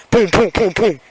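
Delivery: imitated pounding on a door; even, punchy booms; hard knocks. Cops knock on the parents' door, hard booms. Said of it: "they hard knocks".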